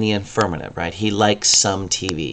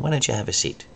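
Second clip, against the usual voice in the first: "Why don't you" said gently, a bit softer; polite invitation; 4 semitones higher, 7 dB quieter, faster than usual. Shown as a demonstration. Teacher showing a polite invitation. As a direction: invite them softly to sit. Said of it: "very nice, polite way".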